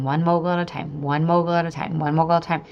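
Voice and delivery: quick, rolling repetition; focused chant, phrases run together; repeated mantra. Retold or imitated. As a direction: rattle the mantra off in a steady loop. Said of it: "I just kept focusing on that".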